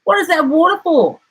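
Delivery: platypus voice. A narrator's reading. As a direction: chirp the question fast. Platypus asks, high and quick.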